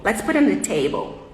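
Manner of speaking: the "in" in "put in the table" nearly swallowed; preposition almost unspoken. Shown as a demonstration. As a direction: slur "put in the" together, stress table. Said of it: "O on quase não foi falado".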